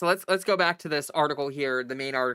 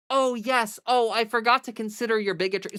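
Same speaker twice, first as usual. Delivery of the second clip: sarcastic; 5 semitones higher than usual. Real, not acted. Sarcastic retort to quoted Newsom.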